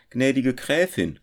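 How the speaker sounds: mildly moved. A narrator's reading. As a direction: address her with emotion. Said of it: "sprach er bewegt".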